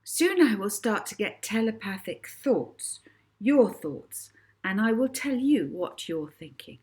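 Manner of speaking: a lightly voiced girl stage performer, grand and inviting; showman Molly. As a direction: announce it like a young showgirl to the crowd. Molly performs her stage act.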